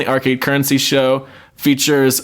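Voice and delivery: ordinary talk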